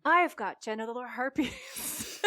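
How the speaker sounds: slow, calm confession through a laugh; peaceful ad voice. Retold or imitated. Yoga woman tells the camera, slow and calm, half-laughing. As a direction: say it serenely, like a wellness ad. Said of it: "looks into the camera all peacefully".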